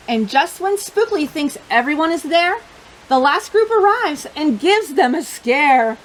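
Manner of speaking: lively, expressive picture-book reading; reading to children. Acted. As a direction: tell the story to a room of little kids.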